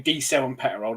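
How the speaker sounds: "Petterol" with an extra syllable in the middle; mock Suffolk pronunciation. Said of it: "the word isn't even spelt like that".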